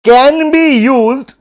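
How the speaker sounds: "can be used" dictated word by word, very slowly; slow dictation. Shown as a demonstration. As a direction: spell it out slowly for notes. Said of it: "लिखो".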